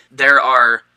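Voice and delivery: speaking through hiccups; slow, halting words between hiccups. Real, not acted. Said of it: "excuse me, I have the hiccups".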